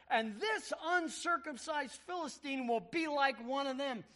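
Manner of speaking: David arguing before the king to let him fight. Acted. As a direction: press the king hard to be sent. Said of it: "and he's arguing".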